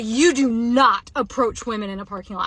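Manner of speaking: firm scolding, re-enacted; mild re-enacted yell; retold yelling. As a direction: retell a yelled warning with emphatic stress. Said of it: "Like, yelling it".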